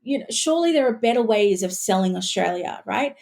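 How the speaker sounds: high, disbelieving outburst; incredulous. Retold or imitated. Retelling her own reaction to the ad, high and incredulous. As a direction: ask in shocked disbelief.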